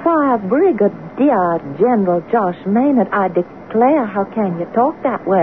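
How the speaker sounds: slow, put-on Southern belle drawl; phony Southern accent. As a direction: tease him in a mock Southern accent. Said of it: "where did you get that phony Southern accent?".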